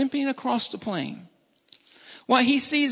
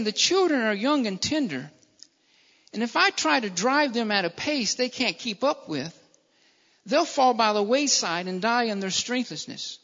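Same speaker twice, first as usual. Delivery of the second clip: subdued, tender explanation; gentle concern; 2 semitones lower, 4 dB quieter than usual. Acted. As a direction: speak softly for the fragile children. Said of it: "I will lead them softly".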